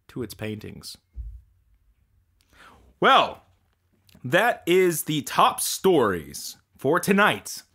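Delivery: deadpan mock news anchor read. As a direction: read it like a cheesy local anchor.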